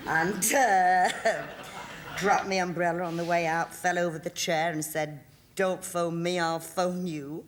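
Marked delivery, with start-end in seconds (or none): 5.6-7.5 brusque parting shot, slowing to a drawl at the end; Elsie Tanner attitude. Retold or imitated. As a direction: toss it off as a brassy barmaid, then drag out the last words. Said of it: "played Elsie Tanner for about five minutes".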